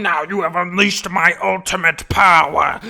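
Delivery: loud villain proclamation; booming boss villain. Acted. Boss rising from the explosion, booming villain voice.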